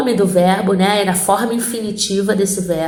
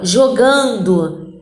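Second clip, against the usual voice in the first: slow and stretched; 2 semitones lower, much slower than usual. Shown as a demonstration. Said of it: "ando, N D O".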